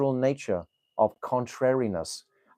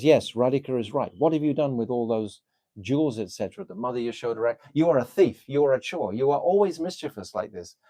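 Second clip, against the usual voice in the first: mock scolding; faster than usual. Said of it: "her pragalbhata, her strong mood".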